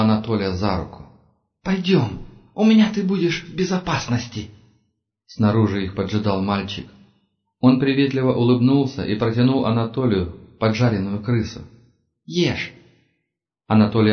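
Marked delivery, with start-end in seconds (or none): 1.6-4.5 put-on high, crackly old woman coaxing. Old woman leads Anatoly away. 12.2-12.7 put-on child voice. Boy offers a fried rat.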